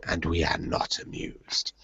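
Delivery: slow, low and grave, a queenly "not amused"; mock regal disdain. To the show's writers, a slow mock-royal rebuke. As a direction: pronounce it like an unimpressed queen. Royal-style verdict on the show.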